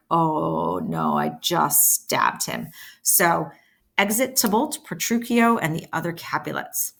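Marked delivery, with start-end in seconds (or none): 0.1-2.7 much lower, slow mock panic; panicking. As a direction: imitate a stunned attacker. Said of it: "'cause they're all panicking".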